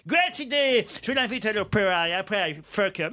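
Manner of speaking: mock an English toff stumbling over French; hammed-up English accent. English aristocrat answering his friend's advice, in a hammy English accent. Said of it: "Il prend l'accent de Laurel et Hardy".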